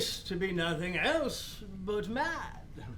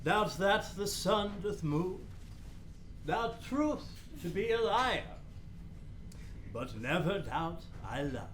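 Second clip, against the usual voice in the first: poem reading; 3 dB quieter than usual. Acted. Polonius reads Hamlet's love poem.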